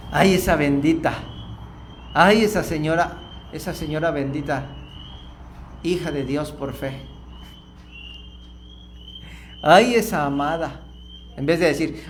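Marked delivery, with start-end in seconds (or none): 0.1-10.8 kind blessing. Shown as a demonstration. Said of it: "tuve que reentrenarme".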